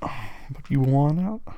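slow teasing. Acted. Teasing a pleading partner.

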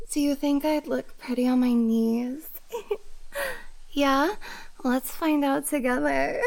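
high, giggly airhead with gasps and moans; bimbo voice. Acted. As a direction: play the ditzy bimbo, giggling and moaning. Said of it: "I sound like that blonde bimbo on your T V".

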